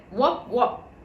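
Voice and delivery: muffled wop wop; as if through a paper tube; hollow jug voice. A narrator's reading. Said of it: "a voice that said".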